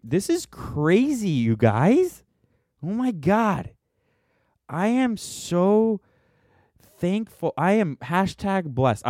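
high, hammed-up gushing over a tiny win; overacted joy, sarcastic; mock excitement. Mock gratitude over four viewers.

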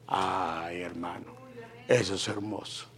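hushed, reverent whisper; awed whisper. Real, not acted. To the congregation about God in the home, a hushed whisper. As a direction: breathe the word in awe. Awe at God's presence.

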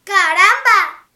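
loud, slow startled exclamation; startled fox cry. A narrator's reading. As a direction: bark it out in shock. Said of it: "Doña Zorra ... solo dijo".

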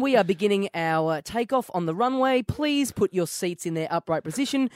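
lightly voiced cabin announcement; mock Qantas in-flight announcement; flight attendant. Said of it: "brought my own in-flight entertainment".

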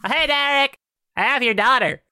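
high, excited call across the party. Acted. Corey hails Derek while holding his daughter, calling out. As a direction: call out high and brightly to get his attention.

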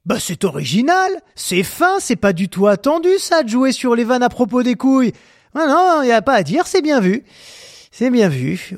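dry fake praise of the joke; sarcastic. Real, not acted. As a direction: praise it while meaning the opposite. Ironic mock praise. (ton sarcastique)

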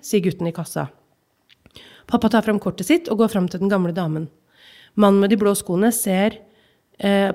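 measured reading of a literary excerpt; calm, even narration of a childhood memory; story reading. Acted. Reads novel excerpt aloud.

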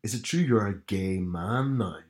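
Northern Irish challenge, lingering on the last words; strong Belfast accent. Retold or imitated. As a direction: confront them in thick Belfast. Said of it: "I put on a strong Belfast there".

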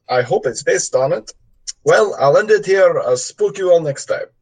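put-on light Russian gangster accent; a hint of a Russian mobster accent. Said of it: "this is Russian gangster voice".

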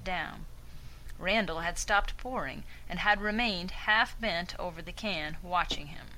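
lightly Southern narrator; little southern drawl. Acted. Narrator reading the story to the group, light Southern drawl. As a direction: read it in an easy, slight Southern drawl. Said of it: "like a little southern drawl".

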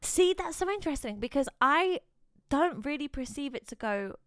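talking around a sore tongue; with a mouth ulcer. Real, not acted. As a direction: speak carefully with a mouth ulcer. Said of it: "I have this ulcer on my tongue".

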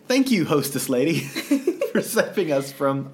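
thanking through laughter; laughing. Retold or imitated. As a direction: laugh while saying thanks. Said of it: "they were like".

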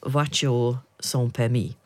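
slow, showy French phrase; French pronunciation. Shown as a demonstration. Host showing off to her co-host, in French. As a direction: say it carefully in French. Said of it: "That's French".

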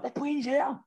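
very high-pitched, incredulous pleading; retold exasperated protest. Late passenger to airport staff, retold high-pitched protest. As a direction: re-enact arguing in a squeaky high voice.

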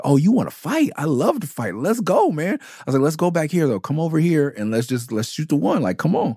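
thrilled to finally fight; psyched taunt. Retold or imitated. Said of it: "like, legit".

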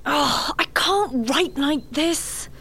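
slow, high-pitched exasperation; frustrated groaning. Acted. Writer frustrated at her own work.

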